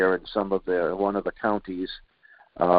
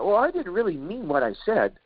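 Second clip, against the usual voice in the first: higher, whiny mock excuse; mock backpedaling; 9 semitones higher than usual. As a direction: play the politician dodging, high. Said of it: "They said".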